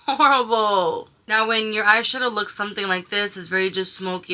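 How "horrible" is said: dramatic disgust. Real, not acted. Repeats verdict, drawn out.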